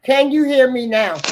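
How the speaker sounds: distant, off-mic voice; faint as if across the room; barely audible. Real, not acted. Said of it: "you're really low, like, really low".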